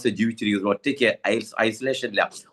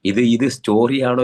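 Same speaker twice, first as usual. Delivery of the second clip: incredulous question; 6 dB louder than usual. Retold or imitated. Man asks if the story is true.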